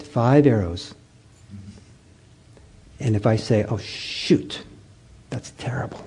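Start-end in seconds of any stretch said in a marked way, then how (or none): 3.6-6.0 whispered dismay. Retold or imitated. Teacher acting out a dismayed thought, whispered. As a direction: breathe it out as a secret groan. Voicing a sixth-arrow thought.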